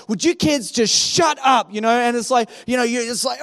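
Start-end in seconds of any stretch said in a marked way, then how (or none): 0.1-1.7 shouted like an annoyed mum in the car; mock mum shout. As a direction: snap at the kids from the front seat. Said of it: "she's like".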